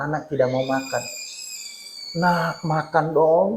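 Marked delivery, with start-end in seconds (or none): 2.2-3.5 soft, slow, drawn-out coaxing; gentle, lower mock coaxing; coaxing parent. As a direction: imitate a parent sweet-talking a child into eating. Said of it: "Dirayu-rayu".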